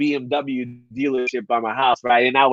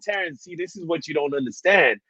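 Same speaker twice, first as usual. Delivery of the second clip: a much softer, confiding tone; hushed confiding; 3 semitones higher, 6 dB quieter than usual. Retold or imitated. Telling the salesman why he's done, in a softer confiding voice. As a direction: lean in and let him in on a secret.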